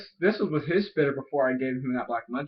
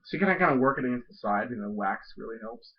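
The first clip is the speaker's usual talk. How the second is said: talking around a fresh pinch; words thick with dip in the lip; lip full of dip. Real, not acted. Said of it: "that's an okay pinch".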